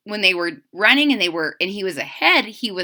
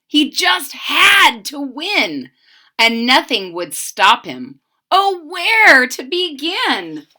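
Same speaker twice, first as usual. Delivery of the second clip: lively rhyming read-aloud, bouncing; expressive children's story narration; storybook reading; 4 dB louder, slower than usual. A narrator's reading. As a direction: read to kids with sing-song energy.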